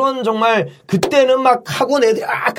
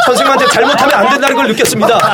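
pitched-up, over-earnest confession; mock contrite pupil; 5 semitones higher, 4 dB louder than usual. Pupil confessing to the class after an hour of punishment, sickly earnest. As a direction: parody a goody-goody reciting repentance. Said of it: "근데 더 역겨운 분위기".

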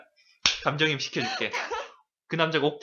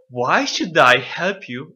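slow, louder disbelieving why; incredulous; 5 dB louder, much slower than usual. Shown as a demonstration. Teacher shows the student how absurd the request is. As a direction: spit it out in total disbelief. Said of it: "너무 어이없게 뱉어봐".

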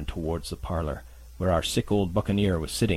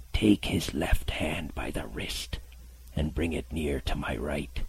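whispered menace; 3 semitones lower than usual. Acted. Beggar's whispered order.

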